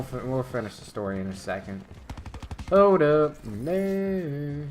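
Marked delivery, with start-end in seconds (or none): 2.7-4.6 calling out. Real, not acted. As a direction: stop someone mid-action. Interrupting the story.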